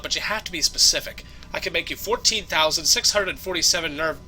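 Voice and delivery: lightly voiced know-it-all bartender. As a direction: explain it like a seasoned barkeep.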